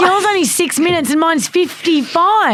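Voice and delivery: high-pitched whiny complaint; hammed-up grievance; mock indignant. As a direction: imitate a friend demanding an explanation. Acting out hungry friend's complaint.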